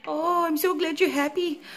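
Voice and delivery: high cooing voice to the pet. Real, not acted. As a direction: gush gently at the dog. Cooing to her dog.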